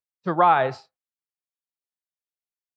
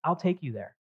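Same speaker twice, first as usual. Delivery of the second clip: voice of the Lord. Retold or imitated. Preacher imagining the Lord speaking to Jonah, lightly voiced. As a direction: let it sound like God speaking. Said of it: "the Lord is saying".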